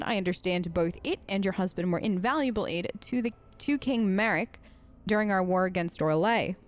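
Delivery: put-on lightly formal narration of an old letter; letter read aloud. A narrator's reading. Reads a found letter aloud.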